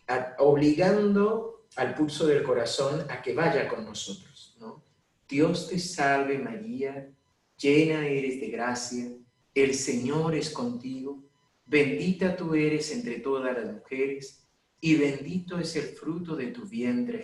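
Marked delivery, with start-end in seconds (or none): 5.3-17.2 slow, every phrase weighted and even; slow deliberate prayer. Shown as a demonstration. Priest showing how to pray the rosary calmly, slow and measured. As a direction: pray it slowly, leaning on each phrase to calm the pulse. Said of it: "poniendo el acento en cada frase".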